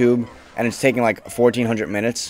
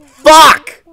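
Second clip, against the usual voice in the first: furious screamed curses, much higher and louder; rage scream; 13 dB louder than usual. Real, not acted. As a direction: let the anger explode. Giving up in rage.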